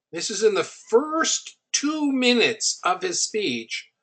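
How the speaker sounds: ordinary talk, nothing marked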